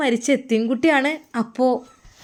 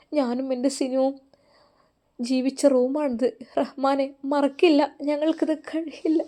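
tearful; 3 dB quieter than usual. Acted. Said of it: "അവൾ പൊട്ടിക്കരഞ്ഞിരുന്നു".

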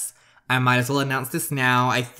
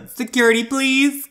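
much higher, louder call; calling security; 13 semitones higher, 6 dB louder than usual. Acted. Cashier calls security.

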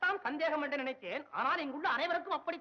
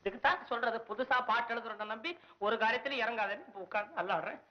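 grumbling to himself, sinking at the end; grumbling lament; 2 semitones lower than usual. Acted. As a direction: complain half to yourself. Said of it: "என்ன புலம்புகிறீர்". (தனக்குத்தானே புலம்பல்)

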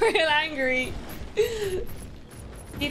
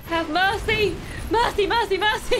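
mock pleading; 5 semitones higher than usual. Real, not acted. Fleeing enemies, pleading.

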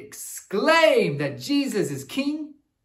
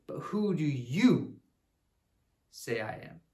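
Jesus asking; 6 semitones lower, 6 dB quieter than usual. Acted. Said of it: "He says".

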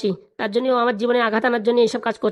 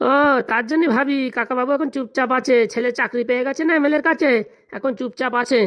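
taunting; 2 semitones higher than usual. Acted. Taunting uncle over son's job.

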